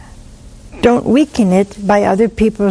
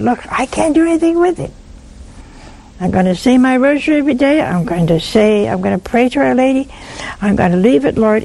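simple prayer to the Lord; 3 semitones higher, faster than usual. Shown as a demonstration. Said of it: "Just say to the Lord".

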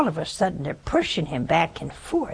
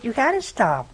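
ordinary talk

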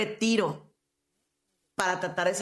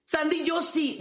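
mocking high retort; 8 semitones higher, slower than usual. Mocking a listener's reply.

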